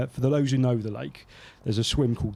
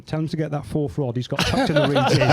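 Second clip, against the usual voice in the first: laughing retold quote; 3 semitones higher, 5 dB louder than usual. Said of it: "He goes".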